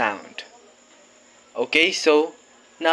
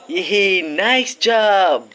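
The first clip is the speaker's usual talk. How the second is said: cheerful praise; 4 semitones higher, 3 dB louder, much slower than usual. Acted. Praising the children.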